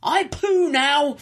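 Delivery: put-on slow, high toddler voice; lisping little boy, slowly; Ben impression. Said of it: "Impression of Ben".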